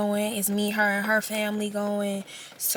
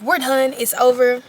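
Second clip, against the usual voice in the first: mock breakup line; 3 semitones higher, 4 dB louder than usual. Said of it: "I'm so quick to be like".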